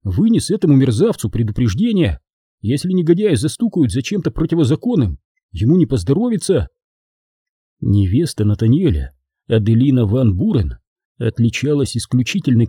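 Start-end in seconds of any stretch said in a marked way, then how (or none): 0.0-6.7 disdainful. Acted. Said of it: "пренебрежительно добавил".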